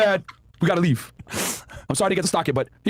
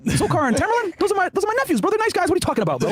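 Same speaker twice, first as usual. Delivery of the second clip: voicing the uncle; 10 semitones higher than usual. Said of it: "he's like".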